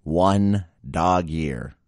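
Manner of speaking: one dog year drawn out very slow, each word weighted; drawn-out deadpan stress on one dog year; slow emphatic punchline. Shown as a demonstration. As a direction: land one dog year slowly like a reveal. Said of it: "get this".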